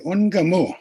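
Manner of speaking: Ungamu said loudly with a falling end; teaching a word. Shown as a demonstration. Teacher calling on everyone to repeat Ungamu. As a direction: lead the group in saying Ungamu. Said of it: "So everybody say".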